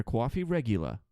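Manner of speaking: lightly done New York accent. Shown as a demonstration. Flight attendant quoting New York coffee slang, light New York accent. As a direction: drop the final R in REGULA, New York style. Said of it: "the New York accent".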